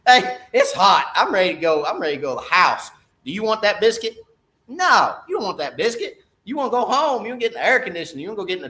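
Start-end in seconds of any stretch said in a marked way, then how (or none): 0.1-2.9 hot tired angler. Retold or imitated. Sweating angler at eleven telling himself to quit, louder and fed up. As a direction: whine that you're done and want to go home. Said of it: "And you think to yourself".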